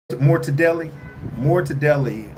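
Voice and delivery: ordinary talk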